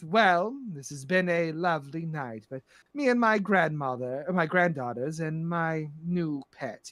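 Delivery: lightly voiced grande dame; measured, understated courtesy; gracious, sinister madam. Plays Madam Storybrooke.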